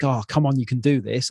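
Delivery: light, encouraging pep talk to yourself; the kind coach voice he never used; encouraging self-talk. Retold or imitated. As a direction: cheer yourself on gently. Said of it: "instead of being like".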